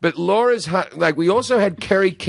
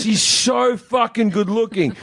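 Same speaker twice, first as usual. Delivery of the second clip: gushing; 5 semitones higher, slower than usual. Real, not acted. Gushing over her husband's looks.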